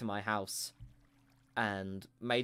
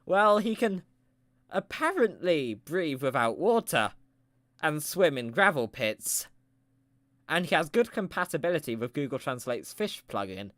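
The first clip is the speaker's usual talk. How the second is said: pep talker verdict; 3 semitones higher, 5 dB louder than usual. Acted. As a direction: lay out the evidence like a proud coach. Pep talker judges the fish.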